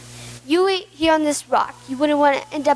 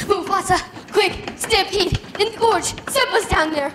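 feigned alarm; 4 semitones higher than usual. Acted. Feigned panic to king.

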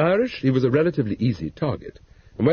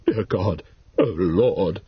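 whimpered; 6 semitones lower, much slower than usual. A narrator's reading. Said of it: "she whimpered".

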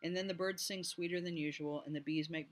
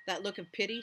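demanding; 5 semitones higher, 4 dB louder than usual. A narrator's reading. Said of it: "Stormy demanded".

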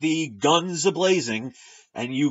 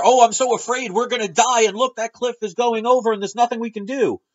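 high, loud hammed-up whimpering panic; mock fear; 8 semitones higher, 5 dB louder than usual. Vlogger mocks people frozen by fear, high mock whine. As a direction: play the helpless coward, overdone. Mocking passive fearful people.

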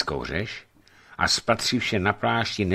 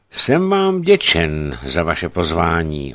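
brisk; 6 dB louder, slower than usual. Acted. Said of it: "odpověděl rázně".

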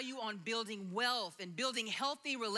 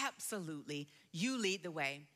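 calm assent; 8 semitones lower than usual. Retold or imitated. Voices Jesus' calm assent.

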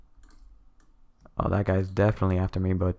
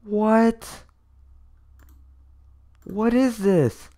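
high-pitched, drawn-out astonishment; stunned disbelief; 11 semitones higher, much slower than usual. Real, not acted. Streamer handed a rare blade, stunned disbelief. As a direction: react high and incredulous, stretching the words.

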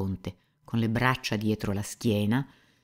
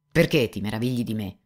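brusque; 4 dB louder than usual. Acted. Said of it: "rispondere bruscamente".

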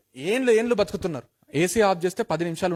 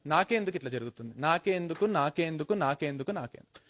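fading, softer and softer lament; self-pitying whine; 3 semitones lower, 6 dB quieter than usual.

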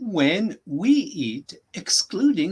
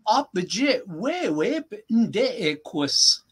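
slow, evenly spaced words; slow repeat. Shown as a demonstration. Teacher repeating the sentence for a learner, slowly. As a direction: model it slowly, pausing before the last part. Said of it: "say the whole thing again slowly".

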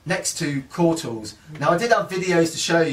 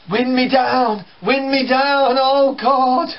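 higher, louder, puffing and gasping dad; breathless dad; 10 semitones higher, 5 dB louder, slower than usual. Retold or imitated. Dad out of breath after the stairs, puffing and louder. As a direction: huff it out as if short of air. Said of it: "puffing and blowing".

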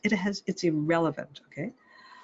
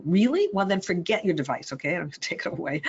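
mock screaming parent; 2 semitones higher, faster than usual. Parent provoked by the child's tantrum, mock snapping. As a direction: snap back like a provoked parent, half in jest. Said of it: "now we're screaming too".

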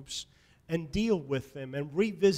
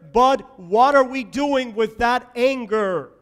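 rising, louder preacher's cadence; building sermon fervor, louder; preaching; 2 semitones higher, 6 dB louder than usual. Acted. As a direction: drive each line home from the pulpit. Preaching climax on God's call.

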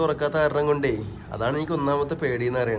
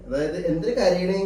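higher, slow cooing question; 4 semitones higher, slower than usual. Real, not acted. Soothing the crying baby.

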